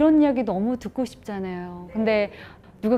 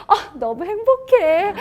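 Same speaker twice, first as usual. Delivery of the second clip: mock happy; 10 semitones higher, 5 dB louder, slower than usual. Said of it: "사실 이렇게 누르지 않아요".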